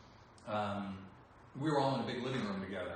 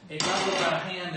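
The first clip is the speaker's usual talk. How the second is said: louder, higher, fast Snake growl; gravelly Snake voice; 6 semitones higher, 9 dB louder, faster than usual. Shown as a demonstration. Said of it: "here, this one".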